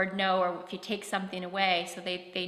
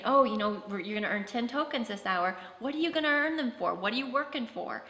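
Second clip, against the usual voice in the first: upbeat coaching; 2 semitones higher than usual. Shown as a demonstration.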